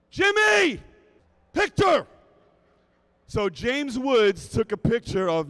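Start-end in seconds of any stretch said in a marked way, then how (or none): 0.1-2.1 loud, high shout of the name; calling out. Retold or imitated. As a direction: yell across the room to get his attention. Calling out to Jimmy.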